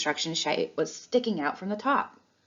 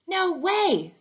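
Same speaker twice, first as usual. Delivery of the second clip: high, louder delighted disbelief; amazed; 12 semitones higher, 4 dB louder than usual. A narrator's reading. Little Shack hears about the pet fair, thrilled disbelief. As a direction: gasp it out in wonder. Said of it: "said Little Shack".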